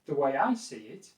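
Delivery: even, non-aggressive opinion opener; neutral. Shown as a demonstration. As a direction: introduce your view in a neutral tone. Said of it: "It's a very neutral way".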